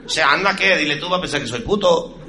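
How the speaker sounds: whisper-plead like a nervous Spaniard; Spanish accent. Retold or imitated. Spaniard urging his friend to ask, Castilian accent.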